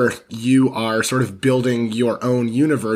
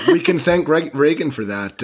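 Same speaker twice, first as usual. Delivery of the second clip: sarcastic; 4 semitones higher than usual. Real, not acted. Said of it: "I say thank, uh, uh, sarcastically".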